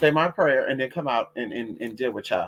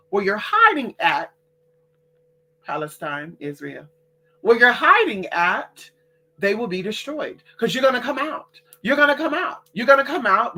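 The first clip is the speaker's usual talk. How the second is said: preacher-like warning voice, raised pitch; fierce warning; 3 semitones higher than usual. Real, not acted. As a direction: threaten them, rising and insistent. Warning hidden enemies.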